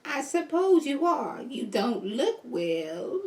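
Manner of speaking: a haughty grandma dismissing her slowly; evil grandma voice. Acted. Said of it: "my evil city grandma".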